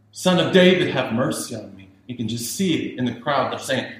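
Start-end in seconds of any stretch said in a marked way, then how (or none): 0.1-1.9 desperate shout, much higher and louder; crying out louder. Acted. Blind beggar calls to Jesus, shouting louder. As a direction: beggar shouting over the crowd. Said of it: "he kept crying out all the more".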